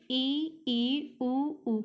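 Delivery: ई and उ stretched out one by one; teacher contrasting the vowels ई and उ; slow vowel demo. Shown as a demonstration. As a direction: say ई, ई, उ, उ slowly as separate vowels. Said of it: "अधिक मात्रा में खुलता हो, जैसे".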